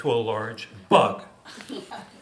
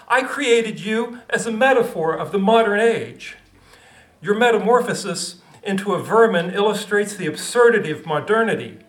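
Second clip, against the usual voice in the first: a hint of a bossy author; lightly voiced stern writer, half-laughing; 6 semitones higher than usual. Kafka lecturing.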